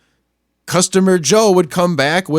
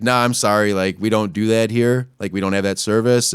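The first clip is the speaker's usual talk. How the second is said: low, flat dismissive clerk; lightly voiced clerk; 10 semitones lower, 4 dB quieter than usual. Young clerk refusing the customer, lightly dismissive. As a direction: brush off the customer. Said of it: "she's like".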